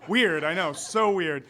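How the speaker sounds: feigned astonishment, punched up; mock surprise. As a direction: play up how weird it is. Mock surprise at his own story.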